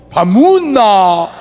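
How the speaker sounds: rough Gyeongsang "밥 묵었나?"; gruff Gyeongsang accent. Retold or imitated. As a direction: drop it heavy like a Busan local. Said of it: "근데 여기는요".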